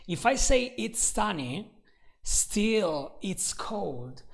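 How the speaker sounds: slow, drawn-out "still it's cold"; stress on still. Shown as a demonstration. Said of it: "I give emphasis to the fact that it's cold".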